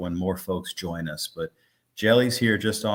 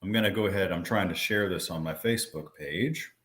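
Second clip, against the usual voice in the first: chewing gum. Real, not acted. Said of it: "Sorry, I'm chewing gum".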